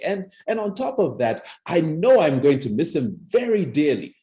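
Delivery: cheerful laughing while speaking of loss; mismatched giggly delivery of sad news; upbeat laughter at a funeral; laughing through grief. Shown as a demonstration. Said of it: "Something is wrong".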